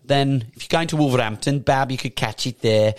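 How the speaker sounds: put-on a playful touch of West Midlands accent. Presenter nodding to Wolverhampton theatregoers, West Midlands accent.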